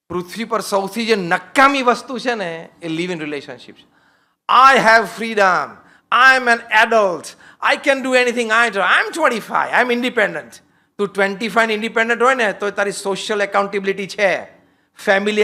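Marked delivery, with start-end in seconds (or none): 4.7-10.5 slow, drawn-out insistence on freedom; lightly voiced defiant young adult; mock defiant youth. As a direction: parody a twenty-five-year-old asserting independence.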